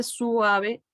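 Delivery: "suave" said su-a-ve; "suave" stretched into three syllables; diphthong split. Shown as a demonstration. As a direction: hold the u of "suave" apart from the a. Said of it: "para hacer la diéresis".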